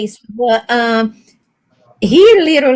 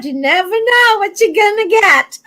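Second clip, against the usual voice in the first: quoting Derek; 7 semitones higher than usual. Retold or imitated. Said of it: "And Derek said".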